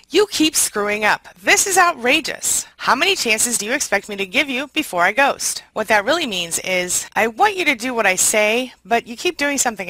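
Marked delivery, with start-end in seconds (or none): 0.1-5.6 mock outrage. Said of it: "phrases of narcissists".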